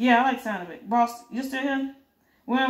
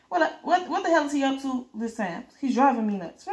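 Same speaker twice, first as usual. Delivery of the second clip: higher, rising exasperation on the repeated what; exasperated outburst; 4 semitones higher than usual. Acted. A man fed up with his absent ruler, exasperated. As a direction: sputter it out, fed up and baffled.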